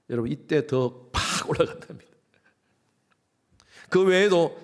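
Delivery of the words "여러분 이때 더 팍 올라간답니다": whisper. Real, not acted. Aside to congregation.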